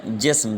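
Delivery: جسم as "jism", silent gap between s and m vowels; correct pronunciation. Shown as a demonstration. Teacher answering own question, one-syllable "jism" for جسم. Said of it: "درست تلفظ کیا ہے؟".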